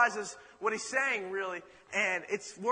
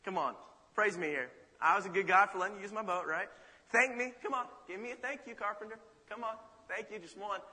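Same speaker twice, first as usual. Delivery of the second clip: fishing for thanks. Acted. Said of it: "Peter's expecting".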